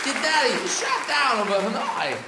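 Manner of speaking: a hint of Walken's broken rhythm; halting Walken cadence, lightly put on; lightly voiced Christopher Walken monologue; bad Walken impression. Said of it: "This is Christopher Walken".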